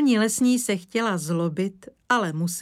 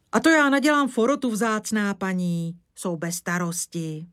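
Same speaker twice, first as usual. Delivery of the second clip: Křampula's eager reply; 2 semitones higher than usual. Acted. Old woodsman eagerly promising the forester's wife, hearty rustic voice. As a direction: rush the promise, then settle.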